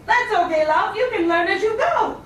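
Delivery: a hint of a chummy card shark; talking shark. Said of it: "Hey, he says".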